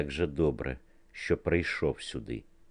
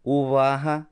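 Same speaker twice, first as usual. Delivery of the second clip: loud, higher call to the studio; call for attention; 8 semitones higher, 5 dB louder than usual. A narrator's reading. Niki calls the studio to attention, loud high call. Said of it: "вигукнув Нікі".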